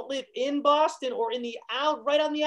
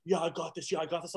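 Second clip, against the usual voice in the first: low, soft, hollow pep talk; imitating an awkward attempt to psych up; unconvincing self-hype; 4 semitones lower, 7 dB quieter than usual. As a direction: pretend confidence nobody believes. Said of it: "Josh trying to hype himself up".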